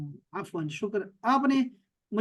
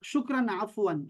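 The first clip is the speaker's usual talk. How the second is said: slow demo; 3 dB quieter, slower than usual. Shown as a demonstration. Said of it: "اور آپ نے کہنا ہے".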